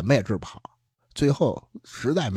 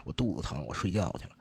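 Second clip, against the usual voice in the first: much softer and lower, a touch of pain; mild pained murmur; 6 semitones lower, 8 dB quieter than usual. Retold or imitated. Telling his night-shift partner he's ill, soft pained murmur. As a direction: drop the voice, lightly voicing a sick man.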